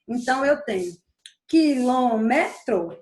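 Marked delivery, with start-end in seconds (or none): 1.5-3.0 "quilômetro" slowly, each syllable set apart. Shown as a demonstration. Teacher reviewing the word for students, "quilômetro" slowly syllable by syllable. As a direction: break "quilômetro" into slow, deliberate syllables. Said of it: "só pra gente se lembrar direitinho".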